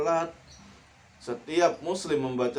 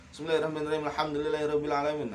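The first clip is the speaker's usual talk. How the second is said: quick, hurried Arabic reading; rushed recitation; 3 semitones higher, much faster than usual. Shown as a demonstration. Teacher's rushed example of wrong reading. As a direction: gabble the verses too fast. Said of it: "Nah, jangan. pelan-pelan aja".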